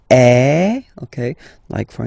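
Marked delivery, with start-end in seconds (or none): 0.1-0.8 loud open eh for tréma; French ë sound. Shown as a demonstration. Teacher showing tréma as in Noël. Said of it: "you will have to pronounce it like".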